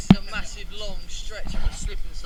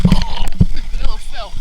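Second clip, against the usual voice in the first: loud exclamation; 3 semitones higher, 12 dB louder than usual. Real, not acted. Falls into cold water.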